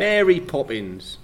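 put-on Cockney accent. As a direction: draw it out in playful Cockney. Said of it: "Speak in a London Cockney accent".

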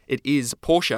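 Porsche said as "POR-sha", stressing "is"; two-syllable Porsche. Retold or imitated. Guest retells being corrected, Porsche said POR-sha. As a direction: correct someone with a final uh on "Porsche". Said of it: "picked me up on it and said".

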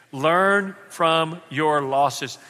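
slow, each word given weight; slow emphatic repeat. Shown as a demonstration. Pastor repeating the line with the congregation, slow and emphatic. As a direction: say it back slowly with the crowd. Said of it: "Say that with me".

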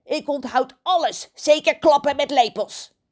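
teasing crow. Acted. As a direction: needle him. (pesterige kraaienstem)

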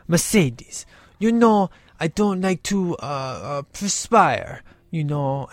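prissy, affected, too good to sweat; snooty boyfriend. Retold or imitated. Paolo fusses to Mercedes, in a soft prissy put-on voice. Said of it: "he's all like".

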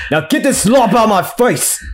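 high, sing-song rejection; angry dismissal. Acted. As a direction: toss the dish away with a sing-song sneer. Chef rejects dish.

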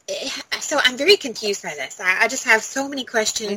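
talking through hiccups; hiccupping between words. Real, not acted. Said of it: "Sorry, I've got the hiccups".

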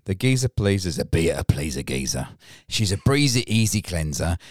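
put-on lightly done London accent reading the beer blurb; London geezer accent. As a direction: read it like a cheeky London geezer. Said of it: "do my best, uh, dolphin accent I can".

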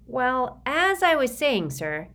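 put-on a frightened boy pleading; nervous Sticky. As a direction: recite a memorized apology, eager to please. Sticky resumes his speech.

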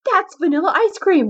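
high, loud shriek; shrieking attendant. Acted. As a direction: shriek it in outrage. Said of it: "the attendant shrieks".

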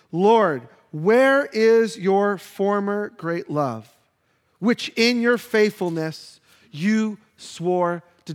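slow pleading lament; aching plea. Acted. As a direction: beg God to remember. Reading verse forty-nine lament.

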